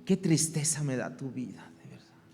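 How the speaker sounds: whispered, hushed fake pity; softly mocking sympathy that feels nothing. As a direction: murmur a hollow show of sadness. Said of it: "la compasión no es como que".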